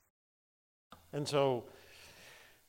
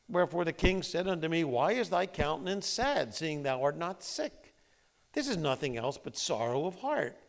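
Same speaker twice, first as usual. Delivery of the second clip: scripture reading; 3 semitones higher, 4 dB louder than usual. Acted. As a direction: read the verses with weight.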